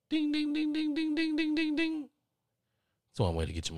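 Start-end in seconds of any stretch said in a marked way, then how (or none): 0.1-2.1 very high, even ringing dings; imitated bell dinging. Caller suddenly remembers the insurance, high bell-like dinging. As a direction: ring it out like a little bell.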